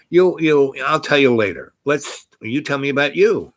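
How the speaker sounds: imitated stammering deflection; hemming and hawing. Retelling her putting off an answer, hemming and hawing. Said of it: "kind of hemming and hawing".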